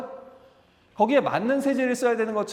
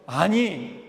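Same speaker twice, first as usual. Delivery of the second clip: God's rebuke; 4 semitones higher, 3 dB louder than usual. Retold or imitated. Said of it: "이렇게 말씀하시겠죠".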